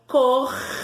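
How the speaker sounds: "Cordeiro" in three long syllables with pauses; separated syllables. Shown as a demonstration. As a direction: stretch COR, then DEI, then RO. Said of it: "Vamos separar?".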